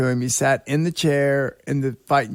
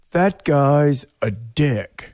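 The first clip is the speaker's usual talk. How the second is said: sea captain voice; much slower than usual. Retold or imitated. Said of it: "I'm not a very good sea captain voice".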